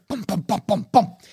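quick thudding footstep noises; imitated footsteps. Game master imitates something sprinting upstairs, thudding noises. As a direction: sound out feet pounding overhead. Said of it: "You hear".

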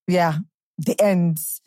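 put-on light London roadman accent; imitated Top Boy accent. Fan showing how she talked afterwards, light English accent. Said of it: "I would talk like them".

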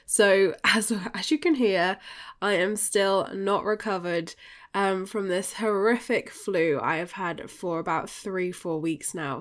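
blocked nose from the flu; nasal, stuffed-up voice from a cold; bunged up nasal voice. Real, not acted. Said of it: "just excuse the nasally bunged up sound".

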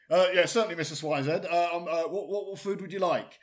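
meek, faltering service voice; flustered waiter. Acted. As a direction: stammer politely while taking the order. Acts flustered waiter taking order.

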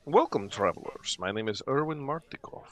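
lightly voiced welcoming innkeeper; Erwin Martikov. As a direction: introduce yourself as a courteous host. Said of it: "he introduces his name as Erwin Martikov".

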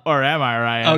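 teasing upturned question; rising inflection. Acted. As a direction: lift the end into a question. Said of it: "that inflection of the second part".

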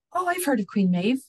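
light up with delight as Pidge. Acted. Pidge recognising the name of the queen, delighted. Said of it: "Pidge said with delight".

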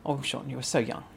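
hushed rueful thought to self; quiet wistful aside; soft inner voice. Retold or imitated. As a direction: say it gently to your younger self. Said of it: "I often think to myself".

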